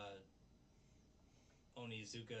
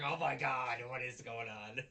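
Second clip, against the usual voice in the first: shocked outburst; 9 dB louder than usual. Retold or imitated. Friend recapping anime, shouting in shock. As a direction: blurt it out in disbelief. Reacting to weird teeth scene.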